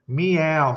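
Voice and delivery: slow "meow" split into mee-ow; "meow" said slowly as if a Thai word; Thai-sounding meow. Shown as a demonstration. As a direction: stretch "meow" with a clear M, Thai-like. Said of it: "sort of sounds Thai".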